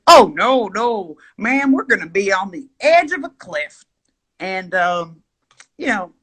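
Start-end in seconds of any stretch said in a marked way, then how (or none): 0.1-3.8 imitated guide. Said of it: "He's like".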